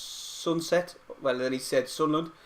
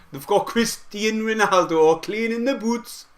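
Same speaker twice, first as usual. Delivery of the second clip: higher voice breaking into laughter; amused; 7 semitones higher, 4 dB louder than usual. Real, not acted. Streamer mocking Newcastle on request, amused and laughing. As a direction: deliver the jibe on the edge of laughing.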